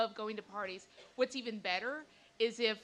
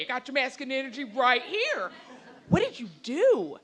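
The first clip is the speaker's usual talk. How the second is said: laughing; 7 dB louder than usual. Real, not acted. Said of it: "retelling while laughing".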